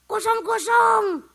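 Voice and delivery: hammed-up shouted greeting; mock shout. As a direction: bellow it to mock the habit. Mocking the greeting.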